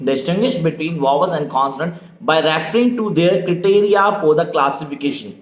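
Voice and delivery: very slow, each word spelled out for note-taking; slow dictation. Shown as a demonstration. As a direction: dictate it slowly so students can write. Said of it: "speed definitely slow है मेरी". (धीमी गति से dictation)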